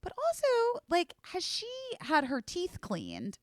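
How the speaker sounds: a fussy vet, mimicked; imitating the vet. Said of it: "this vet that we took her to was like".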